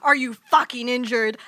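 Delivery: loud, lightly put-on villain quote; quoting Shockwave parody. Podcaster gleefully quotes a favourite fan-made clip, lightly imitating Shockwave. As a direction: do a hint of the video's Shockwave. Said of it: "I quote that to myself so much".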